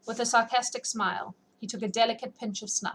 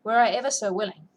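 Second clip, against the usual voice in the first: louder, earnest pleading; 2 semitones higher, 7 dB louder than usual. A narrator's reading. Lady pleading with the cold envoy, louder plea. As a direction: beg him to spare her brother, a touch louder. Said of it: "she pleaded".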